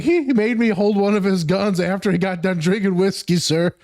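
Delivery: coworker's voice. Retold or imitated. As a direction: imitate the guest telling on him. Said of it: "he's like".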